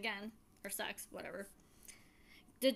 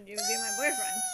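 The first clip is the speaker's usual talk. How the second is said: much higher sweet squeaky voice; cutesy ask; 6 dB louder than usual. Retold or imitated. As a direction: ask it all cute and shy. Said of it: "She's like".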